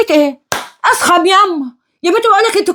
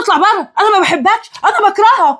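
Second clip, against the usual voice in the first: mock outburst, slightly raised; imitated yelling; 3 semitones higher than usual. Mother repeating her daughter's outburst, imitated yelling. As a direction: quote the yelling back, pitched up. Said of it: "قعدتي تزعقي له وتقولي له".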